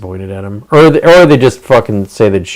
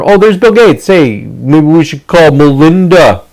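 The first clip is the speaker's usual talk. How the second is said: mock gleeful discovery; 5 semitones higher, 3 dB louder than usual. Mocking Gates' blackmailer.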